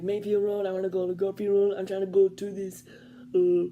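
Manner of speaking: put-on high, loud, eager old man's voice; excited old man. Imitating the old man naming where he wants to go, high and loud. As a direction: blurt the street names out eagerly. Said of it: "he's like".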